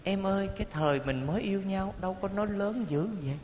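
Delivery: acting out a gentle, slightly hushed plea to a spouse; softly voiced quote; speaking softly. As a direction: keep the voice down, as if coaxing a partner. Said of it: "nói nhỏ thôi".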